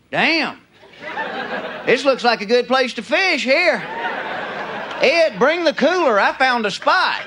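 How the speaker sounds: hammed-up Southern fisherman; thick, drawling Southern accent. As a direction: play a Southerner delighted with his find. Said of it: "You can't do that with a Southern accent".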